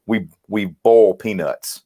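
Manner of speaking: boil peanuts in a slow Southern drawl. Shown as a demonstration. Demoing his Mississippi drawl to the podcast hosts, slow Southern drawl. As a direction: stretch boil out slowly, the Mississippi way. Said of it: "with my pronunciation 'cause I say".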